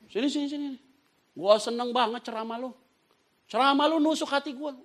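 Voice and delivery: high-pitched imitation of an admirer; eager Pak Haji. Preacher playing Pak Haji praising his sermon, eager.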